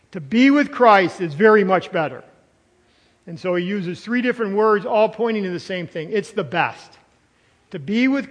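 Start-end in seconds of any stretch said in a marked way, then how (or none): 0.1-2.2 firm weight on "very much better"; emphatic. Shown as a demonstration. Preacher repeating Paul's triple emphasis, "very much better" firmly stressed. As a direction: press each word of "very much better". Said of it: "He wanted to triple emphasize it".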